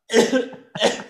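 high, staged fake cough. Shown as a demonstration. Friend showing how the passenger coughs, staged cough. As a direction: cough it on purpose. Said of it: "You just cough".

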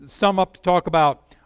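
ordinary talk, nothing marked

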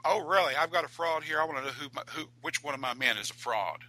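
sharp, high surprised outburst. Retold or imitated. Jackson reacts to fraud news.

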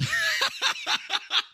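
squealing high laugh. Real, not acted. Laughs at own joke.

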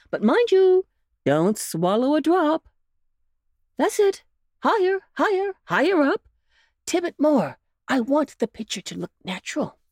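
lightly voiced coaxing uncle; coaxing old rabbit. A narrator's reading. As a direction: win the pup over gently. Uncle Wiggily urging.

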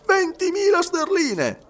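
high, loud, stretched-out exclamation; emphatic exclamation. A narrator's reading. Servant naming the sum to the detective, emphatic. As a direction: proclaim the sum slowly, pitch soaring.

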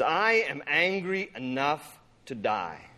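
low, slow mock defiance; sassy defiance. Jonah answering God back, stubbornly defiant. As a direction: draw it out stubbornly, pitched low. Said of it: "he's sassing God".

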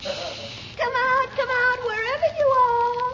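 teasing singsong. Acted. Posse taunting hidden man.

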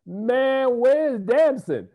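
high, loud, drawn-out mock complaint; exclaiming in protest. Interviewer recalls wondering where the actor was, exclaiming in protest. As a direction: whine it out loud and slow. Retells own complaint as viewer.

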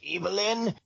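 high strained dying call; dying gasp of a name. Retold or imitated. Dying Skeletor calls out to Evelyn. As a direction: reach out and call her name weakly high. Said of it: "he goes".

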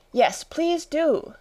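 high, slow, drawn-out plea; pleading. A narrator's reading. Alice begging the Dormouse for a story, pleading. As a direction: beg sweetly, stretching it out high. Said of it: "pleaded Alice".

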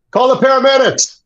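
high, urgent called-out yell; retold yell. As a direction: call for help across the stage. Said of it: "someone yell".

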